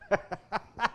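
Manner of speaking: brief, light laugh to himself; short chuckle. Real, not acted. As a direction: chuckle softly after the remark. Laughs after a wry aside.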